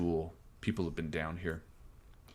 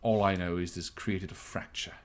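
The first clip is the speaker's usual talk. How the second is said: lightly voiced captain, deliberate and reserved; understated officer explaining a delicate matter; measured captain; 5 dB quieter than usual. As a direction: weigh each phrase, with long pauses between. Game master voices the captain.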